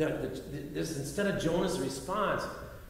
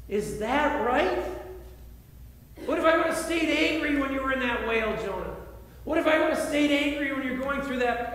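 pleading voice of God; 5 semitones higher than usual. Retold or imitated. God pleads with Jonah, rising.

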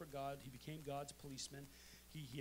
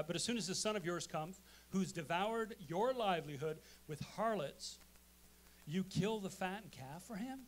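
resentful complaint; 6 dB louder than usual. Acted. Reading the older son's complaint.

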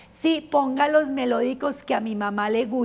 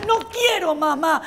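higher, whiny little refusal; a kid digging in her heels; lightly voiced child; sulky girl; 5 semitones higher than usual. Daughter refusing her mother.

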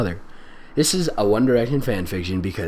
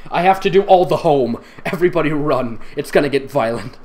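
hammy dramatic voice; 3 semitones higher, 5 dB louder than usual. Acted. Exaggerated fanfic reading.

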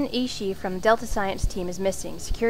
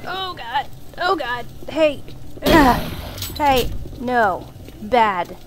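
startled shouts; 4 dB louder, slower than usual. Real, not acted. Startled by monster attack.

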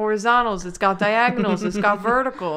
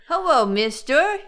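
put-on wholesome 1950s kid; 5 semitones higher than usual. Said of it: "a child that would be in, like, a nineteen fifties show".

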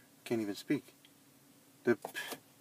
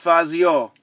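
American accent on Spanish words; gringo accent; 7 semitones higher, 12 dB louder than usual. Shown as a demonstration. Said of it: "I gotta pronounce it like a gringo".

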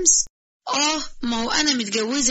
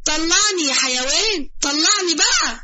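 muffled plea from a bottle; 4 semitones higher, 3 dB louder than usual. Acted. Voice trapped inside the bottle.

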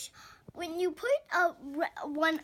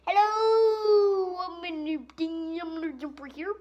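loud, higher greeting that settles; new toy character voice; 4 semitones higher, 9 dB louder than usual. Pretend. Boy voicing a new toy arriving, loud and high. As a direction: announce yourself as a brand-new toy.

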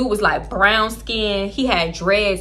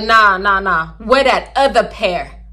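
demanding; 5 dB louder than usual. Retold or imitated. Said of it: "I'm like".

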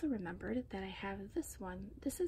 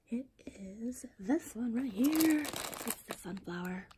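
slow, louder drawn-out reveal; playful reveal; 7 dB louder, slower than usual. Real, not acted. Host reveals the spy among bath bombs, playful slow build. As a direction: stretch it out like a game's big answer.

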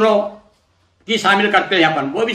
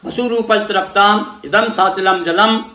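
mantra recitation. Shown as a demonstration. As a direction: intone it like a priest leading the offering. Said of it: "केवल इतना ही बोलेंगे आप".

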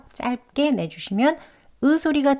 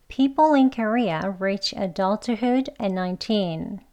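every word of the sentence slowly and evenly spaced; slow careful reading; much slower than usual. Shown as a demonstration. Teacher reading an example sentence slowly for learners. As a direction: read it out very slowly for the class. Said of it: "책 발음과 대화 발음 각각 연습해 볼게요".

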